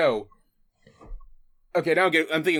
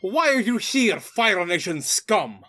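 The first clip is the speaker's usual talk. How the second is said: hammed-up Russian accent, higher and slowing on scum; 4 semitones higher, slower than usual. Natasha confronts the Fire Nation pair in a hammed-up Russian accent. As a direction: sneer it out in a mock Russian accent. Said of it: "going in general Russian accent".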